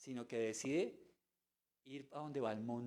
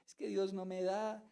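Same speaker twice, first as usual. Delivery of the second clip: whiny complaining believer; 3 semitones higher than usual. Retold or imitated. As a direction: whine like a spoiled chick. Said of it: "Solo llora y llora".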